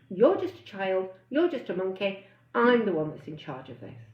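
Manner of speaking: a hint of a firm parent laying down the law. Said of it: "and you say".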